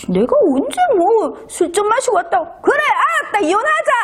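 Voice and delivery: lightly voiced husband, high and defiant; mock husband's retort. Husband snapping back at wife after drinking, mock defiant. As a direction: throw it back at her, fed up.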